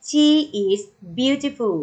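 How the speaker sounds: slow, clear teacher reading; slow model reading. Shown as a demonstration. Teacher modelling the sentence slowly for pupils. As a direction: read it slowly for children to echo. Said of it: "Say after me".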